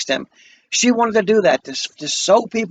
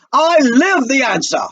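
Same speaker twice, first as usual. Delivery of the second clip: slow, firm, raised voice over someone; shouting over her; 6 semitones higher, 5 dB louder than usual. Acted. Asagai talking over Beneatha to answer her, mild raised shout. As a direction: cut her off with a louder, slower declaration. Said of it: "Shouting over her".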